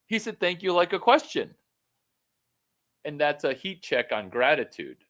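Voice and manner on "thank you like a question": "Thank you" with a high, loud questioning lift. Retold or imitated. Secondary friend thanking, "Thank you" as a loud high question. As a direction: make "Thank you" sound unsure, like asking.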